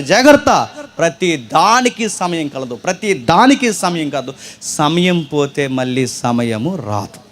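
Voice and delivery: each phrase weighed slowly and gravely; slow, solemn preacher's warning. Acted. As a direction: proclaim it slowly like scripture. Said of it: "Solomon చాలా స్పష్టంగా చెప్తున్నాడు".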